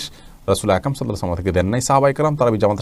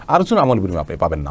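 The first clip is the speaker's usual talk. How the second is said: usual speaking voice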